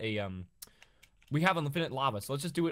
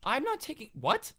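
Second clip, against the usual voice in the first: high indignant what; baffled protest, pitch leaping; surprised; 12 semitones higher than usual. Real, not acted. Denies taking the iron.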